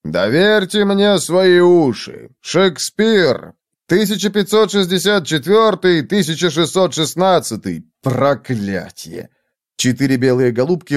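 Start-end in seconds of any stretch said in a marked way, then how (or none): 0.0-7.8 heartfelt oratory. A narrator's reading. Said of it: "проникновенно воззвал Формайл". 8.0-9.3 low, drawn-out curse; exasperated curse. A narrator's reading. Speech spoiled, he curses.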